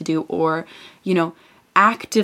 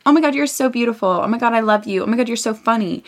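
gushing compliments; 4 semitones higher than usual. Retold or imitated. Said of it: "you can say".

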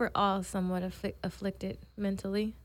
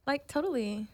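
put-on Valley girl; 6 semitones higher than usual. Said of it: "I just know the Valley girl".

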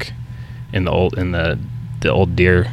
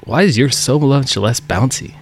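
put-on puzzled old man; 5 semitones higher, slower than usual. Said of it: "and he's like".

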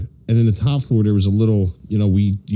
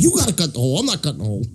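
other voice, dropping softer at end; lightly mimicked client; 5 semitones higher, 3 dB quieter, faster than usual. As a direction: echo the order in a borrowed voice. Imitating the client's reply.

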